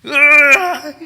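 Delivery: loud anguished scream; retold yell. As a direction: let out a loud frustrated cry. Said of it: "하면서".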